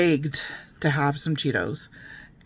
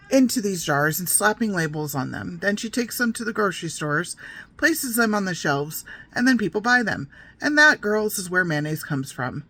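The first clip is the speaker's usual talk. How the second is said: mother telling a creepy tale; 4 semitones higher than usual. Retold or imitated. Mother teasing her little girls with a gross tale, mock storyteller voice. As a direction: relish the build-up like a mock storyteller.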